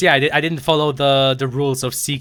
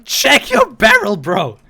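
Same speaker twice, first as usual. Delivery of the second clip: yelling; 8 semitones higher, 6 dB louder, much slower than usual. Real, not acted. Yelling at teammate.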